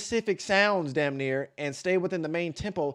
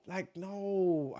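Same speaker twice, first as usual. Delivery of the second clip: whispered no; 4 semitones higher, 3 dB quieter than usual. Pretend.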